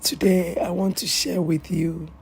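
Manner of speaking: normal talking voice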